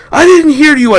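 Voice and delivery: high, loud protest; defensive shout. Acted. Soldier answering the captain: high defensive shout. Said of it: "I told him".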